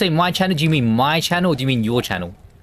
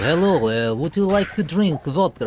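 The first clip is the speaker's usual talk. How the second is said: lightly put-on Russian accent, pitched up on the offer; mock Russian neighbor offering vodka; hammed-up Russian accent inviting a drink; imitating Russian neighbors; 6 semitones higher, slower than usual. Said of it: "picked up the accent off them".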